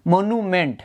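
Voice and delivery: "মনুমেন্ট" slowly split into মনু and মেন্ট; syllable by syllable. Shown as a demonstration. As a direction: say "মনুমেন্ট" in separate, drawn-out parts. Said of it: "একটা আলাদা উচ্চারণ হচ্ছে".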